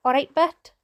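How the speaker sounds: Welsh greeting. Retold or imitated. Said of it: "but is something we say in Wales".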